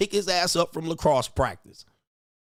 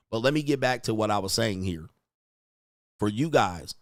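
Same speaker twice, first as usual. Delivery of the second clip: normal talking voice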